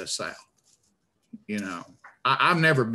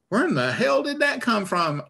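high, exasperated disbelief; incredulous outburst; 11 semitones higher than usual. Retold or imitated. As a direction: ask it like you can't believe your ears. Viewer reacting to fake accent.

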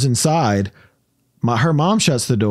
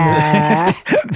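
creepy laugh; 2 semitones higher than usual. Real, not acted. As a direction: let out a long creepy laugh. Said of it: "that was the creepiest laugh".

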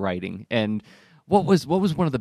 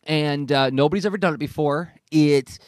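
devil's advocate pitch. Acted. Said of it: "if you wanna play the devil's advocate".

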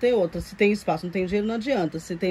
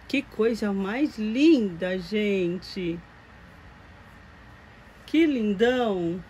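doting; much slower than usual. Real, not acted. Adoring the doll's look.

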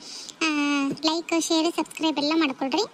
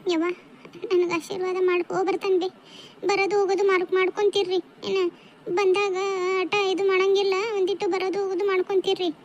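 lightly voiced daughter, a bit higher; slightly raised voice of a daughter saying goodbye; departing daughter; 4 semitones higher than usual. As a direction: lightly play a daughter asking an elder's blessing.

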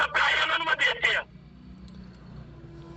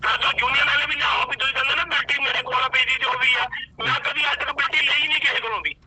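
speaking loudly; 3 semitones lower, 4 dB louder than usual. Real, not acted. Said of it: "ਉੱਚੀ ਉੱਚੀ ਤੂੰ ਬੋਲਣ ਡਿਆ".

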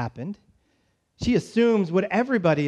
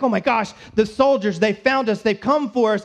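mock panic; 3 semitones higher, 4 dB louder than usual. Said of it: "they're kind of freaking out".

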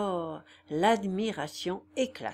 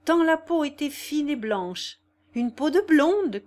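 eager boast; 6 semitones higher, 6 dB louder than usual. A narrator's reading. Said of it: "disait-elle".

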